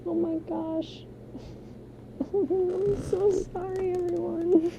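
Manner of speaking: high, giggling apology through laughter; squeaky embarrassed laughing sorry. Real, not acted. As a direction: apologize while helplessly giggling.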